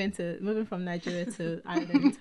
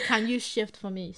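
put-on Nigerian accent; 3 semitones higher, 4 dB louder than usual. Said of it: "the new girl coming in with this Nigerian accent".

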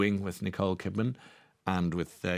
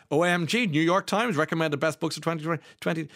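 excited; 7 semitones higher, 4 dB louder than usual. Real, not acted. Excited about Liz Nugent's news.

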